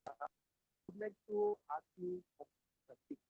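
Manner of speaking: fading, broken-up call audio; breaking up. Real, not acted. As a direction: voice cutting out on the line. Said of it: "Now your voice gone".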